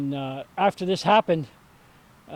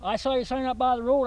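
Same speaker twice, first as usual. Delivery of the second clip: lightly imitated Southern accent, higher pitched; 6 semitones higher than usual. Quoting the visitor in the red pickup, light Southern accent. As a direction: retell it with a hint of Southern accent. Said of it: "he had a southern accent".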